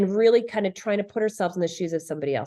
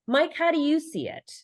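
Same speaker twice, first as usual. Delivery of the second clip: calm assertive demo; 4 semitones higher than usual. Shown as a demonstration. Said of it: "I assert myself using key language like".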